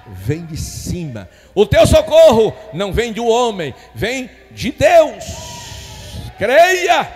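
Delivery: ringing exhortation in long phrases; full-force preaching. Acted. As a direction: preach it high and loud to the congregation.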